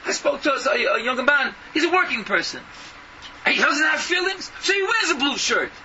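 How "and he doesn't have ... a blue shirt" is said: scornful preaching. Acted. Preacher mocking a father's attitude.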